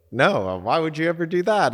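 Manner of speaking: high, loud mock disbelief; incredulous partner. Partner scolding him for agreeing, high incredulous voice. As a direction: play her baffled outrage. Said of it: "she was like".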